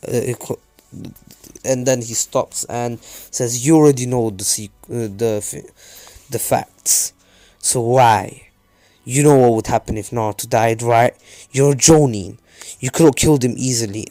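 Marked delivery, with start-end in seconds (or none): 3.7-14.1 louder, mildly angry reprimand; a touch of outraged authority; pissed-off scolding. Acted. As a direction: scold him with raised voice. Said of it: "the Hokage was pissed".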